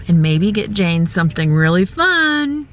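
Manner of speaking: talking while chewing gum; words round a wad of gum. Real, not acted. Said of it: "I just put gum in my mouth".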